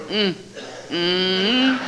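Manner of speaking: two short, humorless grunts in the throat; a stern grunt instead of laughing; imitated grunt. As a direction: grunt it like you refuse to laugh. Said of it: "I grunted".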